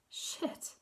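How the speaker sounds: whispered gasp, very soft; barely voiced, on a caught breath. A narrator's reading. Lydia alone by the drugs cabinet, gasped. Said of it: "she gasped".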